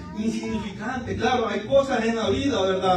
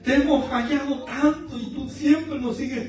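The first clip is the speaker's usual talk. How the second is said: retold tearful prayer; 4 dB quieter than usual. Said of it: "Iba llorando en mi carro y digo".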